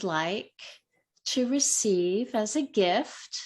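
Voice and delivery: gentle pacing with pauses between phrases; guided reflection. Real, not acted. Meditation teacher invites the group to close their eyes, guided reflection. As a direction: lead them inward, phrase by phrase.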